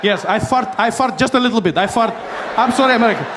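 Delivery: apologetic Iran. Acted. Iran apologises nervously to America.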